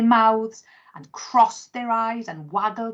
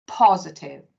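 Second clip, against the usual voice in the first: firm; 2 semitones lower, 5 dB louder than usual. Acted. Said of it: "Tatty said firmly".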